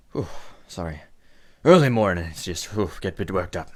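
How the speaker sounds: puffed, settling down after an outburst; catching breath. Acted. Boss apologizes after getting worked up, puffing to calm down. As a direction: blow out breath between short apologies. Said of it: "He kind of breathes for a moment".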